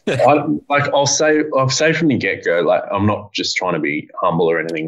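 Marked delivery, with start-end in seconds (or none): 0.1-2.6 higher, talking out of a laugh; amused, laughing. Real, not acted. Guest answers joking question about breaking the internet, amused. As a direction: start answering while still chuckling.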